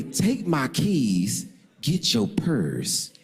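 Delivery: drawn-out words, pressing her to leave; each word spelled out, urgent; slow insistent order. Retold or imitated. Man presses date to leave, slow insistent order.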